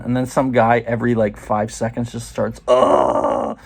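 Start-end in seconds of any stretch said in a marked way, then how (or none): 2.7-3.6 loud mock yell, one long "oh"; imitated man's scream. Some guy down the hall every five seconds, mock screaming. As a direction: imitate a patient crying out.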